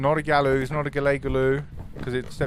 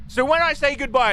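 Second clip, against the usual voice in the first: exasperated squeak; 12 semitones higher than usual. Real, not acted. Frustrated at voice recognition.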